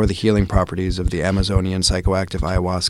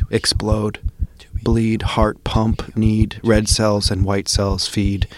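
spoken word poem. Acted. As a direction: perform it like a slam poem. Spoken word poem opening podcast.

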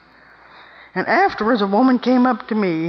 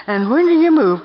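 pointed loud question; 5 semitones higher, 5 dB louder than usual. Acted. Rhetorical challenge to women.

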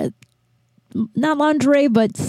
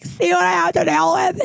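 exasperated quote; 9 semitones higher than usual. Retold or imitated. Showing dad's card to buddy.

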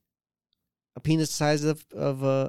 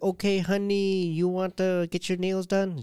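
put-on high-pitched Asian-accented nail salon lady; 6 semitones higher than usual. Nail lady coaxing a customer, Asian accent. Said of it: "she has a great Asian accent".

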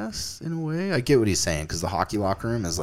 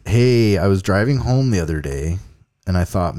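louder, lightly mock Canadian accent; 5 dB louder than usual. Shown as a demonstration. Host slips into a Canadian accent reading a Utah listener's email. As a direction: start the email in a hammed-up Canadian voice. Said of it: "I guess I shouldn't do a Canadian accent for this one".

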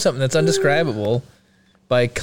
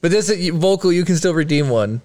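ordinary talk, nothing marked

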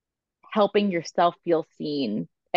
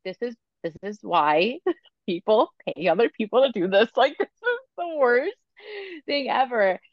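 retold exasperation; 5 semitones higher than usual. Retelling exasperation at family portrait.

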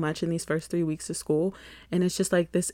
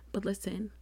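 whisper; 9 dB quieter than usual. Real, not acted. Whispered aside.

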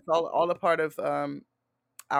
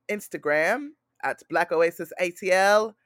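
slipping into a light British accent; lightly British-tinged announcement; accidental British accent; 3 semitones higher, 5 dB louder than usual. Real, not acted. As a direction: let a hint of British creep into the plug. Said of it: "I just went British".

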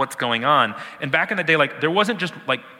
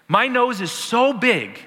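higher, slow, giggling through it; amused mock divine voice; laughing while voicing God; 9 semitones higher, 3 dB louder, slower than usual. Preacher laughing as he voices God's big nose. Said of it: "God is saying".

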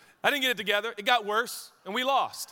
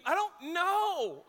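slow, higher, lost inner voice; clueless self; 8 semitones higher, much slower than usual. Retold or imitated. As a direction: drawl it out helplessly. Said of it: "running down the court thinking".

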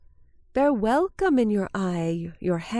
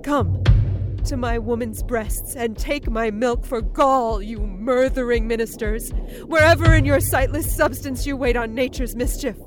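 dark invocation; 3 semitones higher than usual. Acted. Lady Macbeth invokes spirits.

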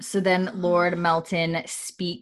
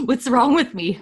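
self-mocking surprise; 6 semitones higher, 6 dB louder than usual. Real, not acted. Catching her own slip.

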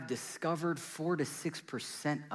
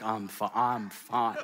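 slow, laughing broken-up Ross; a lightly voiced heartbroken Ross; Ross from Friends; 2 semitones lower, 3 dB louder, slower than usual. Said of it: "he's like".

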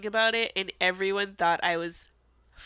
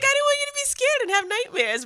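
laughing mom quote; 3 dB louder, faster than usual. Retold or imitated. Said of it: "she was like".

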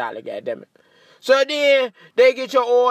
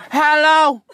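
drive-thru worker; 7 semitones higher, 6 dB louder than usual. Retold or imitated. Drive-thru worker answers after hold.

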